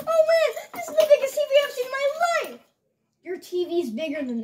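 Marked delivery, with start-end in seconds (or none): 0.1-2.6 fast laughing delivery. Acted. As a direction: laugh through the line. First take, laughing fast.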